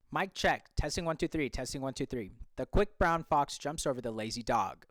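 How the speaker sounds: omnidirectional mic, distant. Shown as a demonstration. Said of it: "the omnidirectional".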